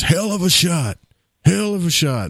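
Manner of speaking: impressed dad. Retold or imitated. Dad impressed after the kill.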